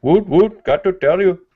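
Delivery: high, loud hammed-up Aussie accent; mock Aussie accent. Host hams up a mock Aussie accent for the viewers. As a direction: bounce it out like a cheeky Aussie bloke. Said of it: "Sorry, I do accents sometimes".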